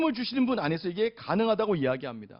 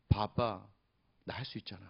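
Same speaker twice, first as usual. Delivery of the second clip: put-on small proud child; 10 semitones lower, 8 dB quieter than usual. Daughter proud to dad.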